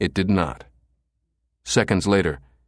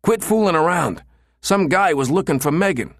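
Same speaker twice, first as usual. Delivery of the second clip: nervous pleading; 10 semitones higher, 3 dB louder than usual. A narrator's reading. Pinned, pleading with friend.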